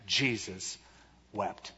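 low, soft, falling words; hushed, weighty statement; solemn. Shown as a demonstration. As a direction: pause gravely between the two words. Repeats the verse solemnly before questioning.

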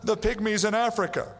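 mock questioner. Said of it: "I have people all the time".

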